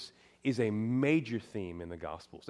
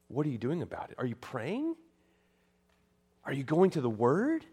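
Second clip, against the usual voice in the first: ordinary talk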